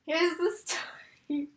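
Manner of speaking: slow conspiratorial whisper. Acted. Teen setting up her story, slow whisper. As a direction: lean in and whisper the setup. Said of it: "whispered setup".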